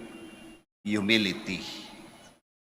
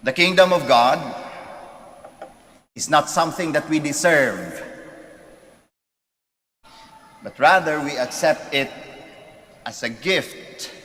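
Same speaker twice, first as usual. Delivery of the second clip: preaching loudly; 5 semitones higher, 4 dB louder than usual. Real, not acted. Homily emphasis, preaching point.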